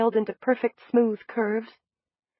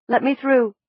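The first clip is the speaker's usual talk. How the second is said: ordered; 4 semitones higher, 5 dB louder than usual. Acted. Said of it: "my old voice ordered".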